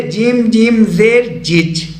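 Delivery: जिम जिम जेर as steps, then the joined जिज; spelling-out demonstration. Shown as a demonstration. Teacher shows learners the reading, spelling out जिम जिम जेर जिज. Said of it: "इसको ऐसे पढ़ेंगे".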